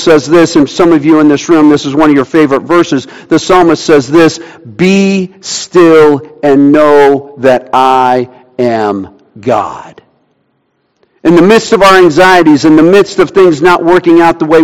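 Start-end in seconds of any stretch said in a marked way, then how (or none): 4.6-10.0 slow, hushed reading of the verse; reverent reading. Acted. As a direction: let each word settle, very slowly. Quoting Psalm, slowed and hushed.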